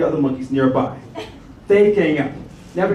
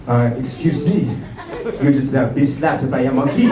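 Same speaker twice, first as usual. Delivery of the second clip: lightly voiced French guy, lower pitched; French bystander; 3 semitones lower than usual. French bystander informing the slapped comedian, French accent. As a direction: play the polite French onlooker, slowing on the opener. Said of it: "there's a French guy who's standing beside me".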